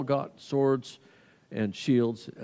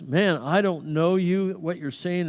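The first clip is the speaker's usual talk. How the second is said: insistent denial; 5 semitones higher, 3 dB louder, slower than usual. Acted. Peter's final denial, acted.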